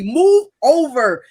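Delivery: loud, drawn-out order; mock telling-off. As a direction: imitate an officer ordering a driver aside, slow and forceful. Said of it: "telling me off".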